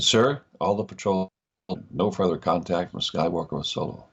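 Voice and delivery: acted American rebel lieutenant reporting; put-on American accent, military report. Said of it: "here I am using it now".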